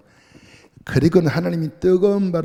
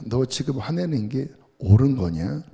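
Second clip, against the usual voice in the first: plain God. Retold or imitated. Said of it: "담백하게 말씀하십니다".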